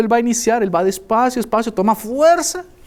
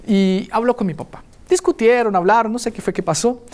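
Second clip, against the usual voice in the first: usual speaking voice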